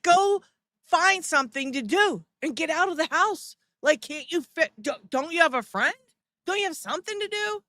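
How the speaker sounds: annoyed mom. Retold or imitated. Mom telling grown son to get out, exasperated nag. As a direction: shoo him out of the house, fed up. Mother shooing son out of house.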